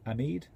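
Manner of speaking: Ahmed said as a-MEED; long "ee" ending Ahmed; trying a pronunciation. Shown as a demonstration. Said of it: "I don't know".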